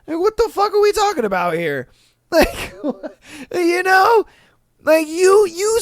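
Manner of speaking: high, fast, laughing rant; disbelieving laughing rant; incredulous rant. Real, not acted. Ranting disbelief.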